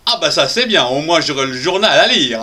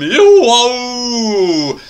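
high excited "youhou" to the crowd; cheery call; 7 semitones higher, 3 dB louder than usual. Acted. Host hailing his audience with an excited call. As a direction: call out happily to everyone.

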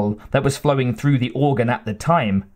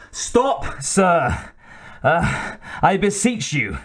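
yelled; 4 semitones higher, slower than usual. A narrator's reading. MacLeod begging Bassett to stop the duel, restrained yell. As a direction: plead for a halt in a raised pitch. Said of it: "MacLeod yelled".

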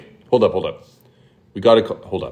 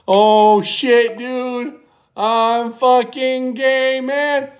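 higher, drawn-out hammed-up panic; mock panic attack; 5 semitones higher, much slower than usual. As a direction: fake a panic attack on the phone. Fake panic attack in prank.

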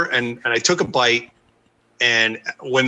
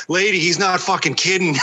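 laughing; 5 semitones higher than usual. Real, not acted. Stranger's retort, teller laughing.

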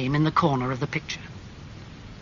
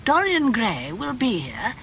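put-on higher, surprised old aunt; Lady Agatha voice; 8 semitones higher than usual. A narrator's reading. Aunt greeting her nephew, high and surprised. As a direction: tease him with mock surprise.

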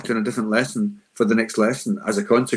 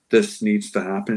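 assertive tone. Shown as a demonstration. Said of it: "a very assertive tone".

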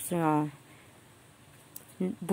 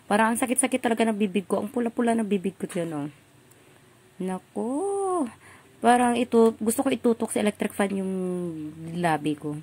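mouth burning from spicy food; 3 semitones higher than usual. Real, not acted. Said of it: "parang nasusunog talaga yung aking dila".

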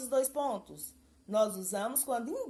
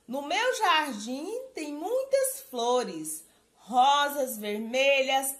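slow, louder poem reading; poem recital; 4 dB louder, slower than usual. Acted. Teacher reads her sample stanza to students, slow poem recital.

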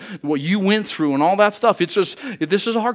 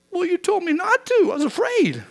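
much higher, sheepish excuse voice; whiny sheepish excuse; 13 semitones higher than usual. Retold or imitated. Sheepish reply to fear's scolding, pitched high and whiny. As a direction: play the child caught out, whining its excuse. Fear voiced answering back.

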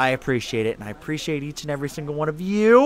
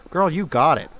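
ordinary talk

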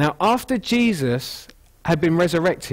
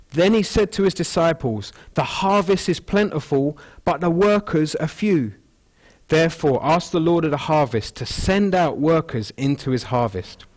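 a little higher, read-aloud Bible voice; scripture reading; 3 semitones higher than usual. Shown as a demonstration. Preacher reading Matthew to the congregation, raised reading voice. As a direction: lift it as you read the verse. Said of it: "Verse thirty-seven".

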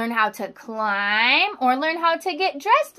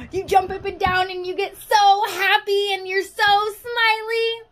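higher, faster gush; excited; 8 semitones higher than usual. Shown as a demonstration. Teacher acting out excitement for her class, high and quick. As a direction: spill it out all bubbly.

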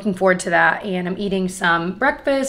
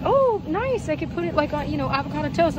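excited; 8 semitones higher than usual. Retold or imitated. Quoting own excitement.

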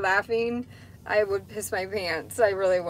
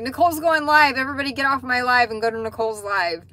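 excited; 3 semitones higher, 5 dB louder, faster than usual. Retold or imitated. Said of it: "I'm like".

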